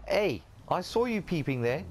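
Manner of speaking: sharp accusing call, played up; mock indignant. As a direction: catch a peeper, half in jest. Catches a peeper in role play.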